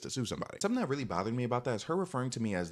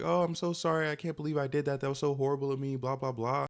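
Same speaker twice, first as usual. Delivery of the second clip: mock tearful apology; 6 semitones higher than usual. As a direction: imitate her wailing an apology through tears. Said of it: "she bursts out in tears".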